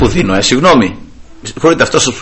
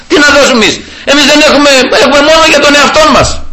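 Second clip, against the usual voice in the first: laughing protest; 11 semitones higher, faster than usual. Retold or imitated. Disciples protest, mocking.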